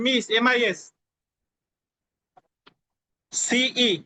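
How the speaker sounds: letter by letter, long pauses between letters; slow spelling dictation. Shown as a demonstration. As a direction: spell it out slowly for students to write. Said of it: "আমি আস্তে আস্তে বলতেছি". (ধীরে ধীরে বানান বলা)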